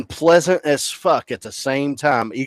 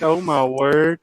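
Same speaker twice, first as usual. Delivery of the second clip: mildly scandalized gasp of words, pitched up; shocked echo tech; 4 semitones higher, slower than usual. Retold or imitated. Echo tech horrified by the amputee's bee-sting story, mock shock. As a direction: imitate her aghast reaction. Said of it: "she dropped her jaw and puts her hand over her mouth".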